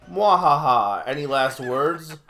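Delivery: hammed-up evil laugh, slow taunt; panto villain. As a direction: gloat like a pantomime baddie. Villain gloats over victim.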